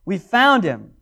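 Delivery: slow, drawn-out explanatory aside; lightly voiced patient clarification; explaining gently. John explaining the Christ to a Greek reader, slow and patient. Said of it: "he's like".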